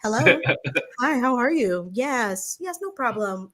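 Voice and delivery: polite phone-voice mom; imitated mother being sweetly proper on the phone; mom's interview voice. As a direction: switch into a courteous phone manner. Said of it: "every Black mom out there got an interview voice".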